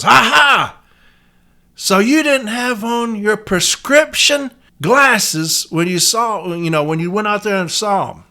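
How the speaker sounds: gloating lawyer. Retold or imitated. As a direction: play the lawyer springing his trap. Acting Vinny cross-examining witness.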